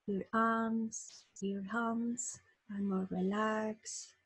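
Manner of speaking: unhurried meditation guide with long pauses; guided meditation. Acted. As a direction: lead listeners gently into relaxation, phrase by phrase.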